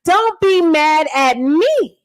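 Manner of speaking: slow, drawn-out fake sweetness; mock apology. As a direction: stretch it out like a sarcastic apology. Mock apology to roasted man.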